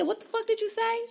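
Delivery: high, challenging demand; gangster confrontation. Acted. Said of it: "I'm all gangster with my shit".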